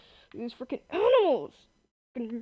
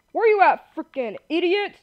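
high, loud taunt; irritated raised-voice challenge; aggressive calling out; 5 semitones higher, 4 dB louder than usual. Real, not acted. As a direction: call out the enemy, fired up. Calling out to hunted mobs.

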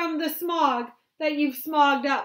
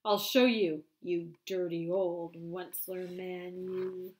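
loud, high scolding; cross Lorax; 5 semitones higher, 15 dB louder than usual. Acted. Angry Lorax scolds the Once-ler about the goo, loud. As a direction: scold the polluter. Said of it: "his dander was up".

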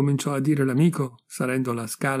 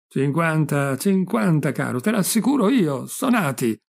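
mildly heated, higher-pitched insistence; teasing insistence; 3 semitones higher than usual. Acted. Friend contradicts Gigione about his age, teasing insistence. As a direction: press the point with playful certainty.

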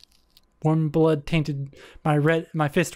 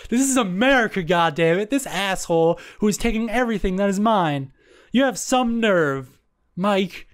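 higher, heated indignant outburst; angry rant; 4 semitones higher than usual. Acted. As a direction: let the rage boil over. Narrator's hot burning anger.

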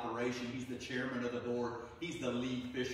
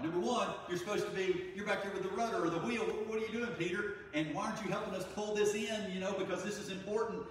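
high, loud protest; exasperated crew; 8 semitones higher, 4 dB louder than usual. Retold or imitated. Fishermen protest at Peter, high and loud. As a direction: complain at him across the boat. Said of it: "they're like".

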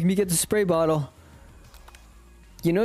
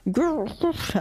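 high failed rolled Grr; rolled R growl attempt; 9 semitones higher than usual. Shown as a demonstration. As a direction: try to roll the R in Grr. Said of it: "I can't roll my R's".

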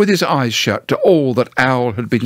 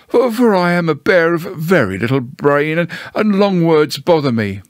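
higher, hesitant simple bear; lightly voiced Pooh; 5 semitones higher than usual. Pooh explains long words bother him, mildly bashful. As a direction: stumble a little, apologetic bear.

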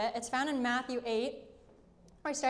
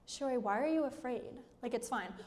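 nonchalant dismissal; 4 dB quieter than usual. Acted. Woken friend to panicked speaker in the boat, nonchalant. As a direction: play a sleepy friend unbothered by danger.

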